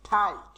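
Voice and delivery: ঠাইট drawn out slowly with a hard retroflex ঠ; ঠাইট said very slowly, ঠ aspirated and retroflex; slow model pronunciation. Shown as a demonstration. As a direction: stretch out ঠাইট like a teacher modelling it. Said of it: "এরকম".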